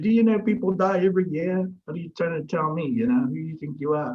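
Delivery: high, loud re-enacted comeback, easing slightly; retold yelling. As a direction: fire back in a retold shouting match. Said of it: "we're yelling, screaming".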